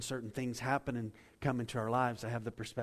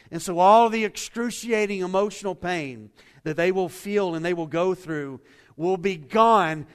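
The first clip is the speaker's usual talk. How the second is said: preaching at full force; 6 semitones higher, 13 dB louder than usual. Acted. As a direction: proclaim it to the whole room with full conviction.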